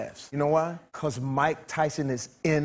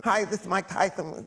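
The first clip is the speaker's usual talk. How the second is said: lisping boxer impression, lightly raised; Mike Tyson; 3 semitones higher than usual. Boxer at the drive-thru, Mike Tyson impression. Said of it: "it was something like Mike Tyson".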